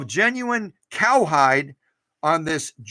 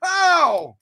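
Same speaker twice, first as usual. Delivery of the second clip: voicing the machine; 13 semitones higher, 6 dB louder than usual. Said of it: "It was like".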